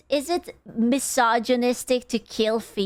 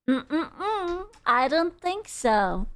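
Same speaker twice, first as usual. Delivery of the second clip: a hint of a nosy neighbor, slow; prim, slow rule-enforcer; HOA busybody voice; 3 semitones higher, slower than usual. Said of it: "She sounded like one of those hoa people".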